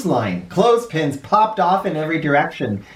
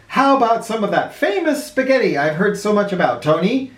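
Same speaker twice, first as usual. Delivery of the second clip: sly president; 4 semitones higher than usual. Acted. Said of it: "asked the president with a wink".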